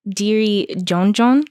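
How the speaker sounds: Diri Jonjon in a flat American accent, Creole r as an English d. Real, not acted. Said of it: "Why you say it with such a American accent?".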